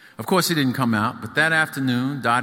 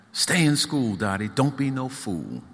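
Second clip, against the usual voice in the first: A singer's voice; 2 semitones higher than usual. Acted. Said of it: "a singer advises Dottie".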